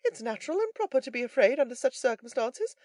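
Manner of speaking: high, loud character voice; philosophical third man. A narrator's reading. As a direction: reason it out for the others.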